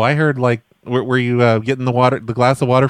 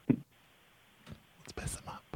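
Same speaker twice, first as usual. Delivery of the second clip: slow, breathy plotting whisper, much softer; conspiratorial whisper; 24 dB quieter, much slower than usual. Shown as a demonstration. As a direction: hush it like a prankster scheming.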